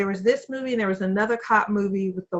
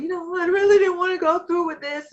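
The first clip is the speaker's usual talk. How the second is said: mock remorse; 9 semitones higher than usual. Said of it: "acting like".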